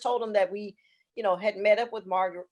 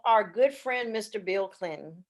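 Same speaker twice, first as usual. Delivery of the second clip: dry, slow mock praise; sarcastic; slower than usual. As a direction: say it with heavy irony. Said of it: "I'm saying that really sarcastically".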